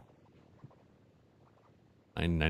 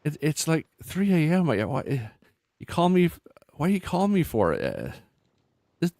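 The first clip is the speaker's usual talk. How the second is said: higher and louder, irritated; woken, annoyed friend; 9 semitones higher, 7 dB louder than usual. Acted. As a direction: snap at a 3 AM call.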